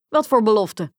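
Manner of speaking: loud demand for an answer; exclaiming king. A narrator's reading. King questioning the frog's claim, exclaiming. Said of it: "riep de koning".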